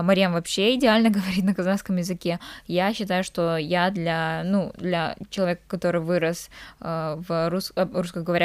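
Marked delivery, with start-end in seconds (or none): none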